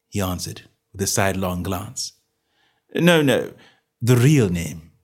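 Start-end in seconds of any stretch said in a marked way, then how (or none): 2.9-4.9 sweetly. Acted. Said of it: "said Holmes sweetly".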